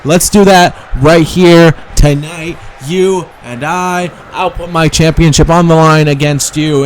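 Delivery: Paige promo. Pretend. Champion accepting the challenge from Alexa, mock defiant. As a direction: answer the challenge head on. Player voices the champion answering.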